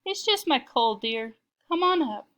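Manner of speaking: high, loud fake granny; scratchy disguised voice; rough, squeaky voice. A narrator's reading. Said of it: "a rough, squeaky voice".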